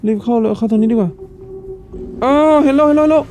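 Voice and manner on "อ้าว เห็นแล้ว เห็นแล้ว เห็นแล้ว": high, alarmed cry of being spotted; panicked gamer outburst; excited alarm. Real, not acted. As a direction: yelp as the monster sees you. Spotted by enemy in game.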